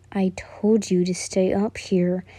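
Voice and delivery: slow, breathy low whisper; whispered scolding. A narrator's reading. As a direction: hush it at her, slowly. Scolding her quietly.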